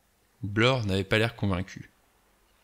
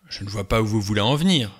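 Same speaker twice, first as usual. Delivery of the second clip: flaring up; 4 dB louder, faster than usual. Acted. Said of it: "s'emporta le docteur Armstrong".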